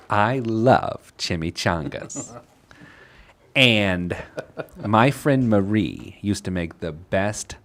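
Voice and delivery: put-on elderly woman, taking her time; seventy-year-old woman. Host playing Beatrice explaining her move, old woman voice. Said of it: "get my seventy-year-old woman voice".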